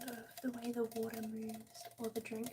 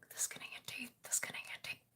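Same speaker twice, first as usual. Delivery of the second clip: trigger word whisper; 4 dB quieter than usual. Shown as a demonstration. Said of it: "It's all about expression".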